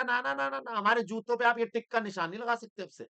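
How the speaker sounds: a lightly voiced seller shaking his head no; Nike owner refusing. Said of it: "कह रहा".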